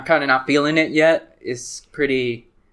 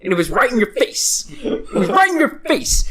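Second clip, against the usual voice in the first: higher, louder stand-up voice, punching right; Dane Cook impression; 7 semitones higher, 3 dB louder than usual. Doing Dane Cook for a friend, loud hammed-up stand-up. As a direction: hit it like an excited comic. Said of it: "that's my Dane Cook".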